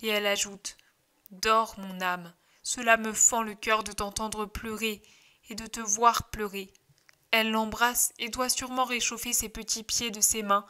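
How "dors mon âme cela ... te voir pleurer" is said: put-on rock the baby to sleep with your voice. Mother lulls baby to sleep.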